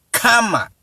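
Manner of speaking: "Karma" as a high kaa-ma; demonstrated pronunciation. Shown as a demonstration. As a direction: model "Karma" alone with long first a. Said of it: "best way to pronounce".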